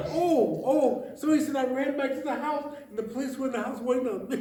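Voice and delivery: high laughing retelling; can barely finish the line for laughing; laughing while quoting. Retold or imitated. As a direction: push the words out through laughter.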